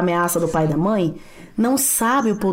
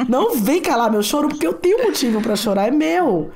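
imitating daughter; 4 semitones higher than usual. Daughter refusing to be silenced, lightly voiced indignation. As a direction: protest like a child claiming her right. Mother voicing daughter's protest.

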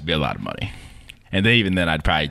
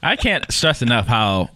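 laughing; 4 semitones higher, slower than usual. Real, not acted. Laughing about real spicy pain.

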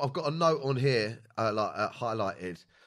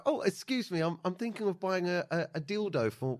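awkward polite customer; 6 dB quieter than usual. Retold or imitated. Embarrassed customer asking the shop owner about the product, soft and hesitant. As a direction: ask sheepishly like an embarrassed buyer. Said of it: "so I go".

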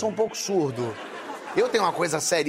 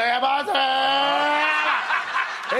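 doorman answering; 5 semitones higher, 3 dB louder, much slower than usual. Retold or imitated. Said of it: "ele gosta, fala".

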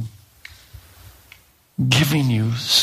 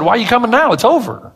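exasperated father; 11 semitones higher, 4 dB louder than usual. Retold or imitated. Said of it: "I'm sure Jairus said".

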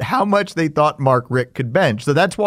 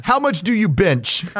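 slow, higher gruff caller; prank caller voice; 4 semitones higher than usual. Retold or imitated. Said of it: "I started off with".

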